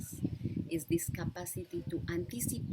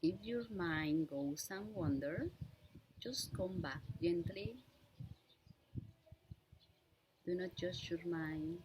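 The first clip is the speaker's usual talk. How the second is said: unhurried meditation guide with long pauses; measured instructions in short, spaced-out phrases; guided meditation. Real, not acted. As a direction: guide listeners gently through breath awareness, leaving lots of space. Leads a breathing meditation.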